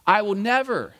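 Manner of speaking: insistent, overconfident promise; brash declaration. Acted. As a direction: declare it boldly, hitting "never". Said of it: "it probably was just this another brash statement".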